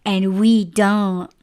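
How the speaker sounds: mock complaint with playful peaks in pitch; teasing. Worker ribbing a favored coworker about shifts, teasing. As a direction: tease her as if it's so unfair. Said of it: "like, teasing".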